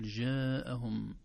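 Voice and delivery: mispronounced jim in جاءهم; wrong jim. Shown as a demonstration. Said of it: "لا نقول".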